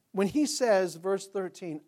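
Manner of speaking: ordinary talk, nothing marked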